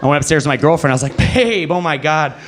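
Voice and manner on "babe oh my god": shaken, retold. Man telling girlfriend about the ghost, mock alarm. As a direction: call out to your partner, rattled. Retelling running upstairs frightened to girlfriend.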